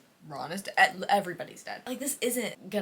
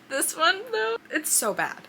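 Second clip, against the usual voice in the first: higher, louder, scandalised; outraged; 9 semitones higher, 6 dB louder than usual. Real, not acted. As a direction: sound shocked and appalled. Outraged at book plot.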